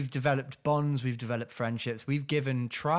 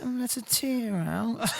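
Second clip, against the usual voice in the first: put-on high, slow, sneering baby talk; mocking taunt; 9 semitones higher than usual. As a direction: drag out the mockery. Taunting imagined victim.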